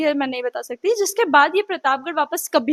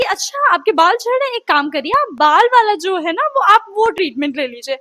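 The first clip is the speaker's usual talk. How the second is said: mocking the doctor; 3 semitones higher, 4 dB louder than usual. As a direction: mimic the smug doctor brushing it off. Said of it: "ये इतना महान आदमी बोलता है कि". (घमंडी डॉक्टर की नकल, ऊँची आवाज़ में)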